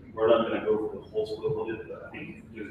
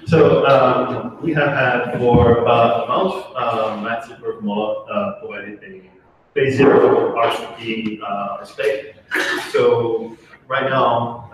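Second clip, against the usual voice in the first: speaking louder; 12 dB louder, much slower than usual. Real, not acted. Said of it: "Sorry, can you speak louder?".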